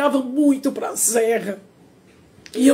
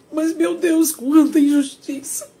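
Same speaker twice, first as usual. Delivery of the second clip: tearful lament; 2 semitones higher than usual. Real, not acted. Lamenting injustice while crying.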